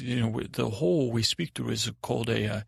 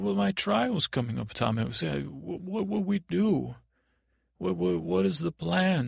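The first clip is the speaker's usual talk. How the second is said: put-on higher, worried boy's voice; anxious prisoner; 6 semitones higher than usual. Boy facing trial asks Tommen for help, worried. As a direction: fret lightly, tripping over the question. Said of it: "the boy is crying".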